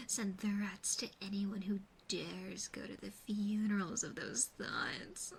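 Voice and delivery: slightly intensified, menacing pep talk; mock menace. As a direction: build into a mock-vicious rant. Mock-violent pep talk against bad thoughts.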